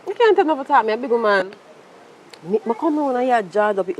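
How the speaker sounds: put-on angry big-man retort to his girlfriend's brother; angry boast. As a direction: puff up and shout him down. Squaring up to the brother.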